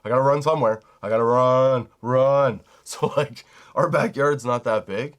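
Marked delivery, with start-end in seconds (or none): 0.0-2.6 fast, loud frantic dog voice; a hyper dog blurting it out in a rush; voicing the dog. Dog owner voicing his hyper dog, rushed and loud. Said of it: "She's like".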